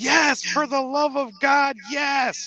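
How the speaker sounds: full scream, very high, very slow, drawn-out. Retelling a comedy spoof where a man answers the phone: imitating someone screaming. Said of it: "he's screaming at the phone".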